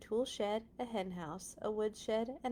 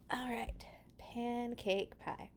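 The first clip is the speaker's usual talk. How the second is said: hushed whisper; 5 semitones higher, 4 dB quieter, slower than usual. Acted. Reading title in a hush.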